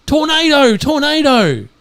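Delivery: high, urgent warning call; mock alarm yell. Brunette yelling to distract the firing squad, mock alarm. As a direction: sound a false alarm, pitched right up. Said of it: "the brunette yells".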